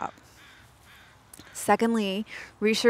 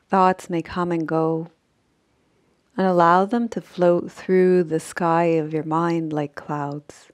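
unhurried sleep-meditation voice with long pauses; measured Yoga Nidra guidance, phrase by phrase; guided meditation; 5 dB louder than usual. Acted. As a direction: guide them gently into rest, leaving long silences.

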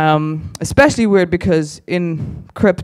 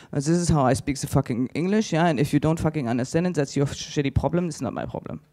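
mock German, blunt and fading to breath; lightly voiced rude German; German attitude; 7 dB quieter, faster than usual. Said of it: "they're like".

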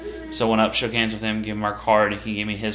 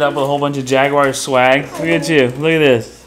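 excited; 8 dB louder than usual. Real, not acted. Mom showing off swag excitedly.

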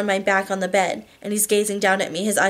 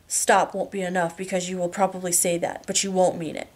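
controlled lover. Acted. Husband tells wife why she needs a safe word, controlled.

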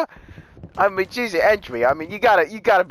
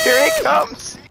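far higher, squealing "Here he comes!"; squealing call; much slower than usual. Real, not acted. Gamer squealing with laughter as the trigger-happy teammate comes back. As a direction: squeal it out in glee.

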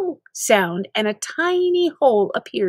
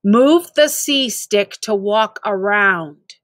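slow stern repeat; slower than usual. Acted. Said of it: "He stared angrily ... before repeating himself".

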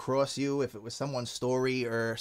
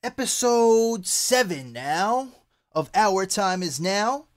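hype intro; 7 semitones higher, 4 dB louder, much slower than usual. Real, not acted.

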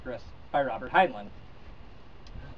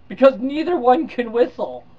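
punchline delivery; 8 semitones higher, 9 dB louder, slower than usual. Acted. Punchline of the computer's joke.

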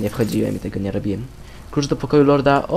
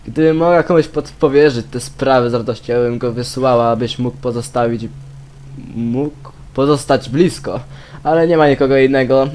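reading aloud; 3 dB louder than usual. Acted. Reads game letter aloud.

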